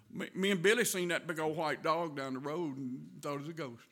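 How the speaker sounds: lightly voiced little kid blurting out a story; a hint of a child proudly chiming in with grown-ups, laughing; eager kid butting in. Preacher voicing a kid interrupting the grown-ups, blurting with a laugh. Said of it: "you just throw something in like".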